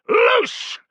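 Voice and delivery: extremely high, loud call; release order. Acted. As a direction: unleash the volley. Order to throw javelins.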